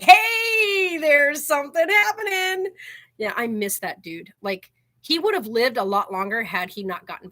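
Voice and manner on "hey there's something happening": high, perked-up little guinea pig voice; excited guinea pig. Retold or imitated. Voicing Brady hearing a cap twist, high and eager. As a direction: voice the pet noticing the milk cap. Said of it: "and he was like".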